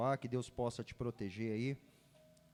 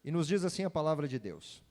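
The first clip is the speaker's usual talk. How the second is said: ordinary delivery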